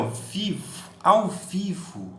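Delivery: slow, ao vivo drawn out; stressing ao vivo. Shown as a demonstration. Teacher pointing out the word to students: slow stress. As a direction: lean on "ao vivo" slowly. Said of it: "Olha a palavrinha".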